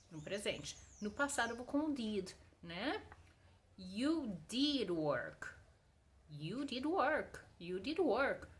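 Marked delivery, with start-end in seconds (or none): 3.8-8.5 slow, weighted "did"; stress on DID. Shown as a demonstration. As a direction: lean on "did" and draw it out. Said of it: "Tu enfatiza aquela situação".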